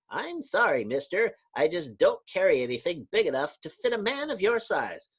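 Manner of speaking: polite tailor turning a customer away; apologetic clerk. Acted. Clerk telling a huge customer nothing fits, apologetic.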